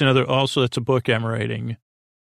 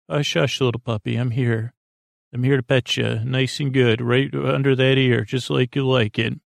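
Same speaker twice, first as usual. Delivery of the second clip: gentle, tender hush to a pet; soothing a puppy. Shown as a demonstration. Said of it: "So if you say it like that, uh, that works".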